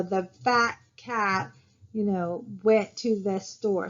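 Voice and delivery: each syllable of "the fat cat went to the store" spaced and slowed; slow even cadence, one syllable per beat; slow rhythmic demo. Shown as a demonstration. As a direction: tap out the beat of every word, slowly. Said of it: "they can tell the cadence of the sentence".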